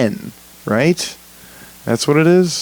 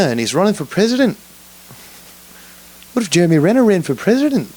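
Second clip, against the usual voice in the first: playful put-on British accent, pitched up; mock British accent; 5 semitones higher than usual. Imagining America had stayed British, mock British accent. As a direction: hams up a posh English podcaster. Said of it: "what if we kept the accent too?".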